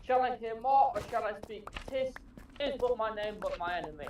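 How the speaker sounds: lightly theatrical Shakespeare recital; orator's recitation. Acted. Reciting Romeo and Juliet to friends in an orator's voice. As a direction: recite famous verse like a practised orator. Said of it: "you have a very good orator's voice".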